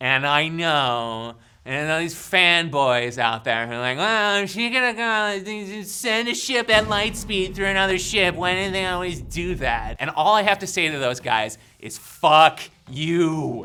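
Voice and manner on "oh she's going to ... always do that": high, whiny, complaining fanboy voice. Ranting about Star Wars fanboys, mimicking them in a mock-whining fanboy voice.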